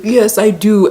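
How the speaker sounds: high, mock-tearful voice; retold tearful vow. Bride answering at the pretend wedding, mock crying. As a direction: imitate a weepy bride saying her vow. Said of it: "starts crying".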